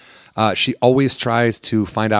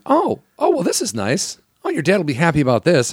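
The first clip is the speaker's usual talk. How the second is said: imitating a sarcastic mom, voice jumping up high on the first oh; a hint of a sly scolding mother; mock sarcastic mom; 5 semitones higher than usual. Mom finding the beer in the fridge, mock sarcastic.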